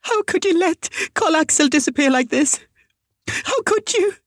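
very high, anguished wail; desperate sobbing. A narrator's reading. Mother blaming the preschool teachers, sobbing desperately. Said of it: "Molly Altenius sobbed desperately".

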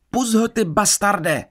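high, drawn-out cry; Nor. A narrator's reading. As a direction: call out the insult slowly, pitched high. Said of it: "slyšel jsem křičet Nor". (výkřik)

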